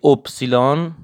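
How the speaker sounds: اپسیلون alone with a rising end; German letter Y. Shown as a demonstration. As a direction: model اپسیلون as the German name of Y.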